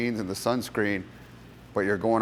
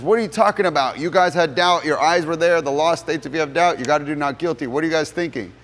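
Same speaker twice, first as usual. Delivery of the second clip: loud, high, outraged protest; an angry lawyer yelling at the jury; upset shouting; 6 semitones higher, 5 dB louder than usual. Retold or imitated. Defense attorney yells at the jury over the guilty verdict, outraged. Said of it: "the defense attorney's upset".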